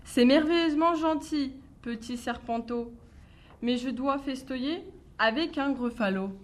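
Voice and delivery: a touch of a bright, cheeky mouse; lightly voiced clever mouse. Mouse bluffing the snake about a gruffalo, light cheeky voice. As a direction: play the little mouse bluffing sweetly.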